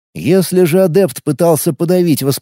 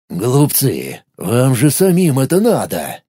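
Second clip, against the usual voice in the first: angry thought; 2 semitones lower, slower than usual. Acted. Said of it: "зло думал он".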